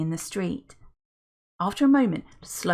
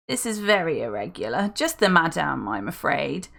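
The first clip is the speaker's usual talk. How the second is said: put-on posh old butler. Welby refuses them.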